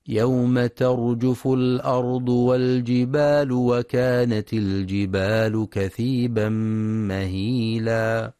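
measured chanted tilawa; Quranic recitation. Acted. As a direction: recite the verse with tajweed. (تلاوة مجودة)

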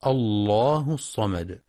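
"الله" begun fresh with a thick, heavy lam. Shown as a demonstration. Tajweed teacher demonstrating a fresh start, "الله" with heavy lam. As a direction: slowly say "الله" with full tafkhim. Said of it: "وتفخم إذا ابتدأ بها".

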